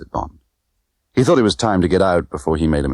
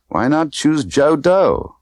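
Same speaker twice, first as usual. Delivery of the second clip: scornful; 9 semitones higher, slower than usual. Acted. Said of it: "She snorted".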